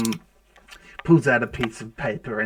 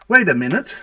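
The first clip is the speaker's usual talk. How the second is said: louder, higher, rising in-character interjection; sudden realization; 4 semitones higher, 6 dB louder than usual. Acted. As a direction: break in with a sudden thought. Gnome suddenly thinks of something.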